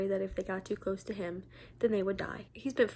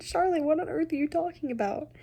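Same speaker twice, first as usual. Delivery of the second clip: reading Henry; 6 semitones higher, 3 dB louder than usual. Acted. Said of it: "Henry said".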